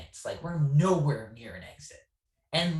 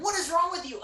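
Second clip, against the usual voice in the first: incredulous friends; faster than usual. Retold or imitated. Friends reacting, retold.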